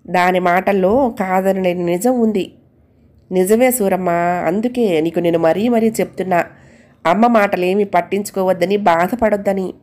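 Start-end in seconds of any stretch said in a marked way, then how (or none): 3.3-9.7 calm, tender reassurance; gently telling the maid not to be hurt. Acted. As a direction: soothe her, kindly. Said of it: "సున్నితంగా చెప్పాడు".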